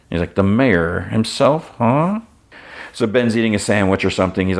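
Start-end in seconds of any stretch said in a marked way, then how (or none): 0.3-2.2 slow, then a sharp rising "huh?"; surprised. Acted. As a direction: let the surprise climb at the end. Detective surprised at news.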